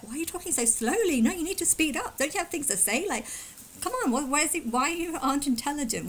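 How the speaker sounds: speeding up, mock indignant; exasperated retort. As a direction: fire back at the critics in a rush. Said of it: "When I'm just like".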